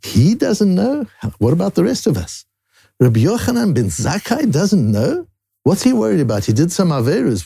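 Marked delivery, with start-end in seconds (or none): 0.0-5.9 tearful retelling. Retold or imitated. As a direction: recount a rabbi who taught this with tears in his eyes. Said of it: "literally with tears in his eyes".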